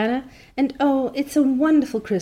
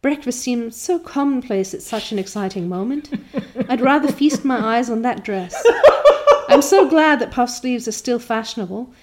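rapturous Anne; 2 semitones higher, 3 dB louder than usual. Acted. Anne rapturous about dress.

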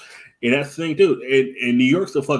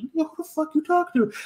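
high-pitched indignant challenge; aggressive; 13 semitones higher, faster than usual. Acted. New Yorker confronting an aggressive rider, aggressive. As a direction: challenge them, voice jumping way up. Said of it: "If you is aggressive".

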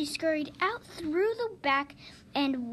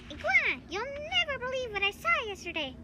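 excited; 11 semitones higher, much faster than usual. Acted. Excited mosquito gossiping to iguana.

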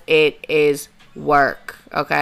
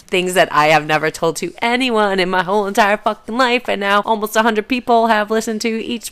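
rising higher and louder as it goes; worked-up insistence; 5 semitones higher, 6 dB louder than usual. Real, not acted. Podcaster on a hundred people hearing her secrets, worked-up. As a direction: build to a high, loud protest. Insisting she won't show vulnerability.

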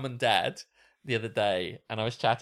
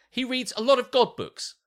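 high, louder imitation of mum; condescending mum; 11 semitones higher, 5 dB louder than usual. Mum tells Alex about dad's reading, mock condescending. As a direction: play up mum's patronising reveal. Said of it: "It just sounds kind of condescending".

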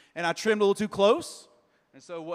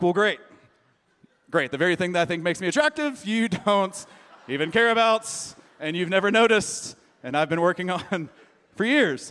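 mock wounded, laughing; 5 dB louder than usual. Husband's mock-wounded complaint to wife.

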